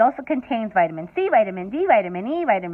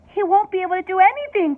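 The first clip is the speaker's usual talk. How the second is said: higher, a touch louder cry; worried mother crying out; 7 semitones higher, 4 dB louder than usual. A narrator's reading. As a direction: call it out in dismay. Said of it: "cried Miss T V".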